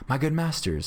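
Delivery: high-pitched, pleading appeal; bargaining. A narrator's reading. Beggar bargains with outlaws for freedom, bargaining. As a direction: wheedle the captors. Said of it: "the beggar began to bargain".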